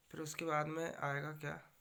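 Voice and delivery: ordinary delivery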